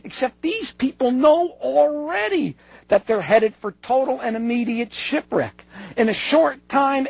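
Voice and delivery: high-pitched, emphatic book reading; dramatic reading. Acted. Lecturer quoting a writer on doomed passengers, dramatic reading. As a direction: read the grim passage out, pitch easing down. Reads a book passage aloud.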